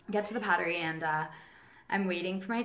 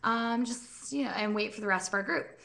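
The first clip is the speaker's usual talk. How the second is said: quoting the customers; 4 semitones higher than usual. Retold or imitated. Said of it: "and then they were like".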